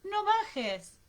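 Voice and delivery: high, loud urgent yell; shouted warning. A narrator's reading. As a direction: yell to stop the child. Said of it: "le gritó Germaine". (grito agudo de advertencia)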